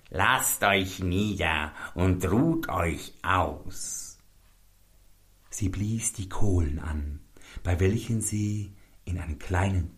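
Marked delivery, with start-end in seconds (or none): 0.1-4.2 langsam geflüstert, heuchlerisch süß; falsch freundliche Hexe. A narrator's reading. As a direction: locke die Gäste flüsternd herein. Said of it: "tat ganz freundlich". (geflüsterte Hexenfreundlichkeit)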